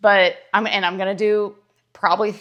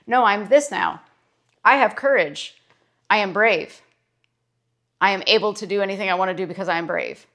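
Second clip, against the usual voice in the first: confident declaration. Shown as a demonstration. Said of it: "changed it and said".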